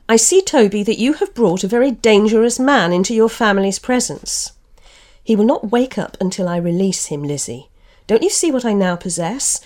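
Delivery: story reading with lightly voiced characters; literary reading with mild character voices; reading aloud from a novel. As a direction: read the passage like an audiobook, giving each speaker a touch of voice. Reads novel passage with voices.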